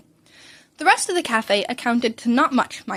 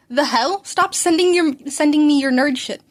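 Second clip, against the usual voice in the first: annoyed; 3 semitones higher, 5 dB louder than usual. Acted. Annoyed reply to spam texts.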